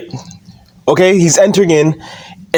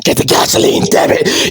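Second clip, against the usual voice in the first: high scream turning hoarse; Vince McMahon; 6 semitones higher than usual. Acted. Boss insisting to Randy Orton, raspy mock scream. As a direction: scream the order till the voice gives out into a rasp. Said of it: "He just keeps screaming it".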